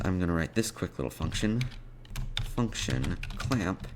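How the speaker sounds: normal talking voice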